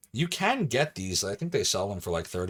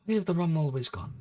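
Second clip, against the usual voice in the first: much higher movie-pirate attempt; Johnny Depp; 8 semitones higher than usual. Streamer trying the rum line for chat, Johnny Depp. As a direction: plead it in a put-on pirate accent. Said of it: "If I do the Johnny Depp".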